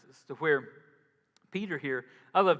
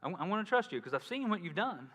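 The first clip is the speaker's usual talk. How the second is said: Peter calling out; 5 semitones higher than usual. Retold or imitated. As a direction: call out to the Lord, nervous but bold. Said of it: "and he goes".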